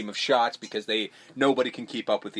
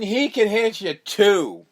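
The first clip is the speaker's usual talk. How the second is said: mock high voice; 8 semitones higher, 5 dB louder, slower than usual. Remer voiced in retold scene.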